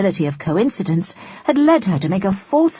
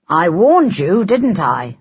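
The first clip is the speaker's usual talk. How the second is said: complaining; 5 dB louder, slower than usual. Acted. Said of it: "he complained".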